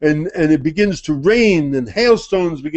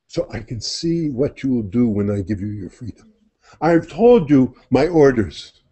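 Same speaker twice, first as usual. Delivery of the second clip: solemn divine voice. Acted. Divine voice explains freedom.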